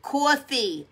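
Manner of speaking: drawn-out New York "Coffee"; thick New York vowel in "Coffee"; New York accent. Real, not acted. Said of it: "I'm a New Yorker".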